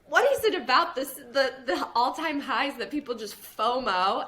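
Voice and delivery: loud, laughing what is it about this; amused and baffled at once; laughing disbelief. Retold or imitated. She laughs at people chasing all-time highs. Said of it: "And I'm like".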